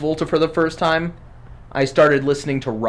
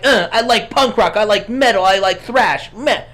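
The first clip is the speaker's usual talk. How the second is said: put-on bratty teenager voice; 3 semitones higher than usual. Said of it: "I'll pay you ten dollars to talk like that".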